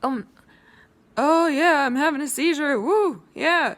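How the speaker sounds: loud, high jeering imitation of a mocker; mocking taunt. Mimicking people who joke about seizures, loud mocking. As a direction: sneer it like a rude stranger. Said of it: "random people will say".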